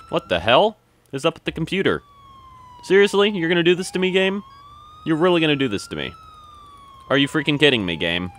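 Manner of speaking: pleading disbelief at the glitch; real frustration. Real, not acted. Gamer complaining to the glitching game, exasperated.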